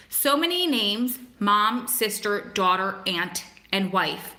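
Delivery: measured, heartfelt recital of a love poem; poem reading. Acted. Streamer reads a prisoner's poem for his girlfriend, poem reading. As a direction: read it phrase by phrase, letting the list land.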